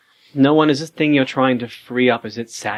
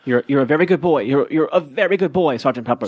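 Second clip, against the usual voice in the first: higher, praising talk to a dog; reassuring; 4 semitones higher, 3 dB louder than usual. Acted. Player comforting anxious dog, reassuring pet-praise voice. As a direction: coo encouragement to an anxious pet.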